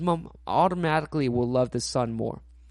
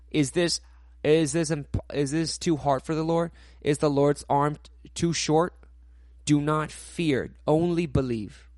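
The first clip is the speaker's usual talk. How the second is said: Jesus speaking; 3 semitones higher, 4 dB louder than usual. Retold or imitated. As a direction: voice Jesus asking, then urging faith. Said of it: "Jesus says".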